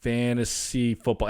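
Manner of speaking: slow, drawn-out FANTASY FOOTBALL; imitated cluelessness. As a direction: sound out an unfamiliar term slowly, as a puzzled wife. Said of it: "Anything she has no clue about".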